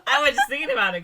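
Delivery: mock haughty, giggling; laughing mock command. Real, not acted. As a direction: shush her grandly while laughing. Mock-imperious hush, laughing.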